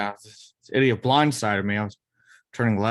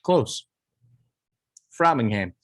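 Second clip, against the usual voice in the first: put-on Boston accent; 2 semitones higher than usual. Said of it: "Nick talks in a thick Boston accent".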